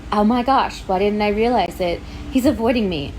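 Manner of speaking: loud, overdone gasp of sudden realization; mock Bella realization. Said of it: "for her to be like".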